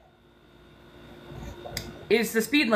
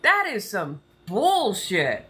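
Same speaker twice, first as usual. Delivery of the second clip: Southern twang creeping in; slower than usual. Real, not acted. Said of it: "I can feel the Southern starting to come out".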